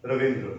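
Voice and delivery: रविंद्र in Hindi, every consonant sounded; Hindi pronunciation. Shown as a demonstration. Teacher showing the Hindi way of saying a name, fully sounded रविंद्र. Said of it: "Hindi में".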